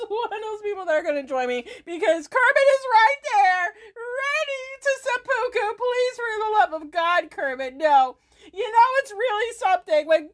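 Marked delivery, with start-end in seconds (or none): 0.1-5.8 laughing through a quick, high ramble. Real, not acted. Streamer joking that Kermit is joining in, laughing. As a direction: crack up while talking, pitch climbing.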